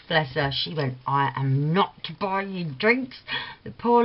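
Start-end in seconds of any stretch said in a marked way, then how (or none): 1.0-3.2 slow, through gritted teeth; forced out between clenched teeth. Retold or imitated. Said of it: "through gritted teeth".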